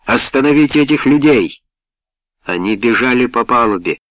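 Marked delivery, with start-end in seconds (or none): 0.1-1.6 raised, high commanding cry; megaphone roar. A narrator's reading. Helsey orders the men stopped, roaring through a megaphone. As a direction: bellow the order as if over the deck. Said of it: "проревел над нашими головами усиленный рупором".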